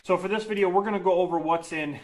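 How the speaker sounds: winded after lifting; out of breath. Real, not acted. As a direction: speak between heavy breaths. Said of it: "I'm out of breath just from doing that".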